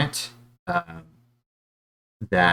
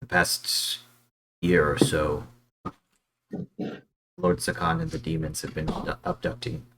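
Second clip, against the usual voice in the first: whispering; 2 semitones lower, 6 dB quieter than usual. Acted. Guards secretly informing an outsider about their lord, whispered. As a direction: confide it softly, with long pauses. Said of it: "they kind of whisper".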